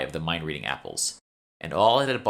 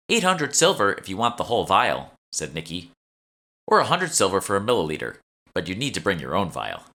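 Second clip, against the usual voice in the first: lightly voiced shopkeeper; 2 semitones higher, 4 dB louder than usual. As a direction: play the eager young shopkeeper, slightly raised. Nikki quotes price.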